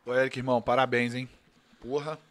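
talking with mouth full; words through a mouthful of sausage. Real, not acted. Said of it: "Fala com a boca cheia de linguiça".

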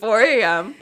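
put-on loud, failed British accent; bad British accent. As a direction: try British, land near Australian. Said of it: "I can't do British accents".

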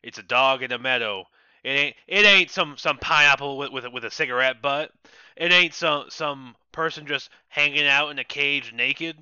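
put-on a mild Florida panhandle accent that ranks "dog" above modern art. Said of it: "Florida panhandle accent".

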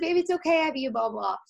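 soothing mommy voice. Retold or imitated. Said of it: "And I was like".

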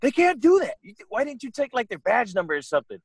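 high-pitched mock protest; imitated indignant ex. Ex objects to the police stop, high indignant imitation. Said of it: "she was like".

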